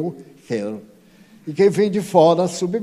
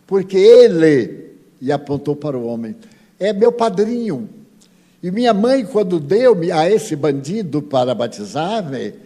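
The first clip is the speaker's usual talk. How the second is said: angry accusation; 2 semitones higher, 6 dB louder than usual. Acted. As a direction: spit out the grievance, rising hard. Possessed spirit accuses his godfather.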